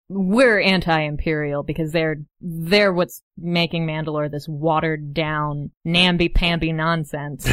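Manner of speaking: slow, deliberate Mandalorian partisan; lightly voiced militant, taking time over each word; Deathwatch Mandalorian. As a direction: make the case slowly, in character. Game master voices Deathwatch member.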